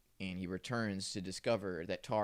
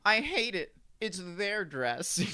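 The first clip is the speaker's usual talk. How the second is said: much higher, louder mock voice; mock high girly voice; 11 semitones higher, 6 dB louder, slower than usual. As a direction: squeal it like a whiny girl. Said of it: "and she's like".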